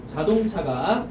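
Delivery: measured dictation with long pauses between phrases. Real, not acted. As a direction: dictate it phrase by phrase for note-takers. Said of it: "불러줄게". (받아쓰도록 끊어서 불러주기)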